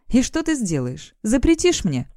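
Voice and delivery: usual speaking voice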